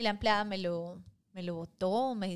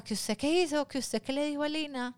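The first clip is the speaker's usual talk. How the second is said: high mock angry demand; angry dad; 7 semitones higher, 3 dB louder than usual. Dad demanding what she said to the maid, in a high mock angry voice. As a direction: confront her like a furious father.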